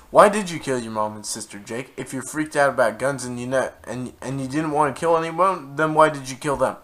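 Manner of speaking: demanding answers from the killer; indignant demand. Real, not acted. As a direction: press him hard for an answer. Agreeing, outraged at Jake.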